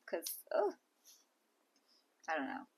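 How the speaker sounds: breathy conspiratorial whisper, no voice. Real, not acted. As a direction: drop it to a secret whisper. Gossipy aside, dropping voice.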